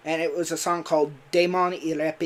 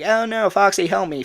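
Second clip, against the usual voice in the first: higher, louder mock panic; cry for help; 6 semitones higher, 8 dB louder than usual. Cassie calling Foxy to rescue her, a loud mock panic. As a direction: call out for rescue, hammed-up. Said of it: "Cassie is like".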